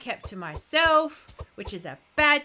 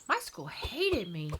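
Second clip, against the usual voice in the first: laughing; 2 semitones lower, 5 dB quieter, slower than usual. Real, not acted.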